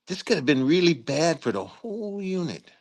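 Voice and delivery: retold scolding. Retold dressing down of lieutenant.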